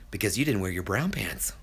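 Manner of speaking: breathy deadpan whisper. Acted. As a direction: whisper it like a secret joke. Joke punchline in Reynolds voice.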